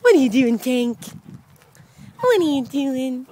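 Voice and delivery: loud playful question to Tank; squeaky praising a dog. Real, not acted. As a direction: tease the pup loudly.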